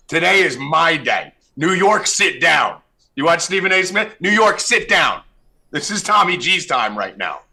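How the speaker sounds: loud, high gloating taunt. Real, not acted. Host taunting Knicks fans, loud and high. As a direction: crow over the rival fans.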